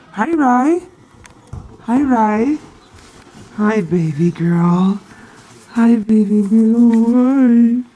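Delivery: loud excited pet greeting; talking to a dog. Real, not acted. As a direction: gush over the dog.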